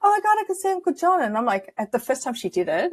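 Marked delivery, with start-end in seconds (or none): 0.0-1.2 put-on very high squealing scream in a child's voice. Retelling how the daughter reacted to two rainbows: imitating a child screaming. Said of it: "she screams it".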